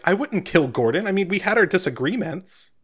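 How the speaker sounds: high-pitched flustered protest. Acted. Eckerd denying the killing to the guard captain, flustered. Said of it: "He looks really flustered".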